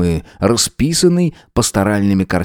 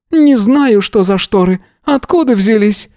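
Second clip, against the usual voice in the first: put-on old gypsy woman; 12 semitones higher, 3 dB louder than usual. A narrator's reading. Yana denies, old woman voice.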